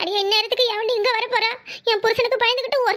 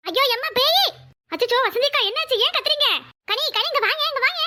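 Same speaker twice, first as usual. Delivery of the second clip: high-pitched frightened outcry; panicked alarm; 5 semitones higher than usual. Acted. Women startled by a ghost at night, panicked high cries. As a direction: cry out as if you've seen a ghost.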